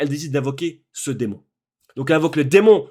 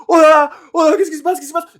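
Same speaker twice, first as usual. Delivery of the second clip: much higher, loud repeated exclamations; stunned excitement; 11 semitones higher, 7 dB louder, faster than usual. Retold or imitated. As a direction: lose it over the fight. Reliving the climax of the film.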